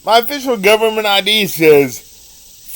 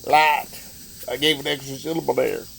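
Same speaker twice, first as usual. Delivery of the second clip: terrible Larry the Cable Guy. Acted. Reading Deputy Mater aloud to listeners, in a hammed-up redneck Southern accent. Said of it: "that was me doing a terrible Larry the Cable Guy impersonation".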